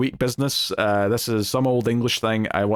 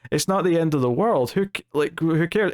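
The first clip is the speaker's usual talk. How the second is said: higher-pitched, indignant outburst; retold outrage; 6 semitones higher than usual. Blackthorn to the house staff over the dead gardener, higher exasperated outrage. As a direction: let the disbelief climb, a mock rant. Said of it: "Blackthorn gets outraged".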